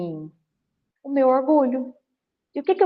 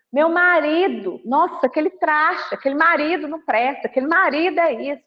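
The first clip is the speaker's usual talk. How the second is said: complaining wife; 4 semitones higher than usual. Retold or imitated. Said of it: "o tanto que eu escuto".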